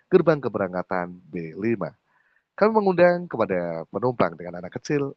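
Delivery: melodic pre-boarding announcement; airport announcement. Shown as a demonstration. Coach demonstrating airport boarding call to students, announcer intonation. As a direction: read it out like an airport announcer, lilting at phrase ends. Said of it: "Itu intonasi di bandara".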